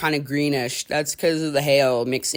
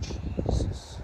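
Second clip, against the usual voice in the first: whispered; 12 dB quieter than usual. Real, not acted. Awed by a mean storm.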